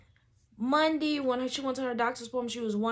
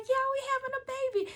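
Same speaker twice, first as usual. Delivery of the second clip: good energy; much faster than usual. Retold or imitated. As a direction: keep it upbeat for the client. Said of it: "keep my energy good".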